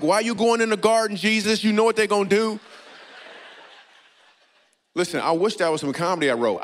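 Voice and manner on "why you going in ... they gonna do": higher, louder alarmed call to Jesus; alarmed warning. Retold or imitated. Comedian reading John, calling out to Jesus in alarm. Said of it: "I'm like".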